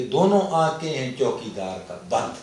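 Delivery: put-on comic verse in Pashto-accented Urdu. Poet giving his closing couplet, Pashto accent. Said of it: "میں پڑھتا بھی اسی لہجے میں تھا".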